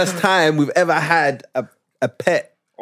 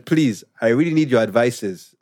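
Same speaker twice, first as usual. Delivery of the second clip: put-on Ugandan accent. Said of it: "when I read it in Ugandan accent".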